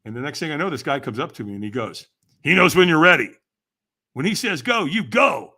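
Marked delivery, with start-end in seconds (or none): 2.4-5.5 loud, firm retold order; urgent instruction. Stranger briefs the nervous walker in line, loud instruction. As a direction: give the signal like a coach.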